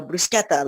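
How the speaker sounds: bruschetta tried as "broo-SKET-ta", hard k; attempted Italian pronunciation. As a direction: have a go at Italian bruschetta, sk not sh. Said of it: "like, try to say it".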